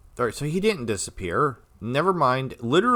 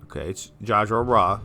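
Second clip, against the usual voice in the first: pill in the mouth; mouth full. Real, not acted. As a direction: say it round a pill. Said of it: "That's hard to say when I have a pill in my mouth".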